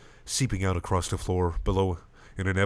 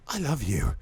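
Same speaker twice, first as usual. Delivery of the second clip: tender confession; 4 semitones higher than usual. Acted. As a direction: confess it gently in a higher voice. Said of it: "Purpur admits".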